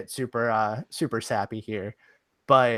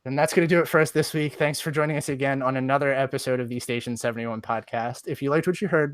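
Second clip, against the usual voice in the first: podcast outro read. Acted. Reciting memorized podcast outro.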